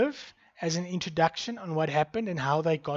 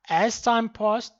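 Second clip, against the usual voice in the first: "As time passed" slow and louder, stressing time; slow emphatic; 5 semitones higher, 5 dB louder, slower than usual. Shown as a demonstration. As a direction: lean on it slowly. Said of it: "This is what it should look like".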